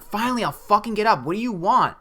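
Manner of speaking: loud, high, fed-up yell; retold scream. Half-asleep woman demanding what the voice wants, exasperated mock scream. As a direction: act out snapping at an unwanted wake-up call. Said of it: "I screamed that".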